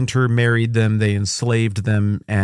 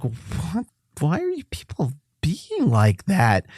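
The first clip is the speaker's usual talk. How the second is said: whispered disbelief; 6 semitones higher, 3 dB quieter, slower than usual. Retold or imitated. Onlooker aghast.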